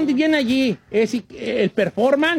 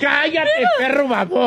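scolding wife; 4 semitones higher than usual. Retold or imitated. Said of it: "la esposa va a decir".

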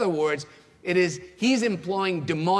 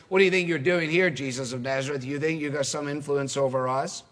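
confrontational challenge; faster than usual. Acted. Demon confronting Jesus of Nazareth, a quick challenge. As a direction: throw it out as a challenge. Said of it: "it's the sort of spirit of challenge".

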